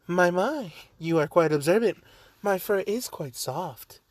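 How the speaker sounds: lightly voiced British gentle-creature character; Nezu. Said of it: "I don't know why I made him British".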